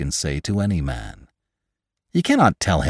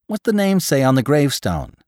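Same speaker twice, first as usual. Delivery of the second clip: high-pitched demand; agitated gravedigger; 8 semitones higher than usual. A narrator's reading. Gravedigger asking Jim to read the gravestone, agitated. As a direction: ask urgently, voice up high.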